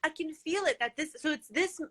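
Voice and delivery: high, giggly attempt to carry on; laughing. Real, not acted. Teased about her crooked mouth, laughing as she explains. Cracking up at the teasing imitation.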